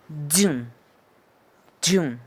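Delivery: "dun" as an isolated model sound; phonetic sound demo. Shown as a demonstration. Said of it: "es más bien un, un dun".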